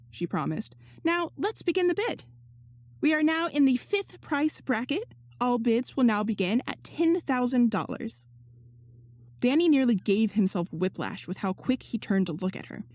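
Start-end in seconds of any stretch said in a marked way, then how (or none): 1.0-8.3 higher-pitched, upbeat host voice; a hint of a chirpy auctioneer; lightly voiced female host. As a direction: lift the pitch a little for the hostess.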